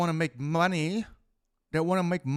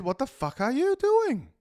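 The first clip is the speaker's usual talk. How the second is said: wife's sharp rebuke; 10 semitones higher, 3 dB louder than usual. Retold or imitated. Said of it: "my wife popped along and said".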